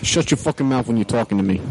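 put-on Bronx tough talk; Bronx accent. Friend playing tough in the accent game, mock Bronx accent. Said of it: "From the Bronx".

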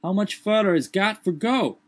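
high dialect halloo from the treetop. A narrator's reading. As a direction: call down from far up the tree. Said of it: "his voice was heard in a sort of halloo".

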